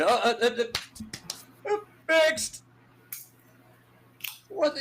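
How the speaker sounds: slow, high mock stammer ending on fixed; mock stammering commissioner. Host mocking the commissioner's excuse, hammed-up stammer. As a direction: play a fumbling official who suddenly declares it fixed.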